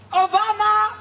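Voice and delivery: loud, high triumphant announcement; proud herald crying out a name; excited reveal. Acted. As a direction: unveil the name like a fanfare. Grand reveal of the director.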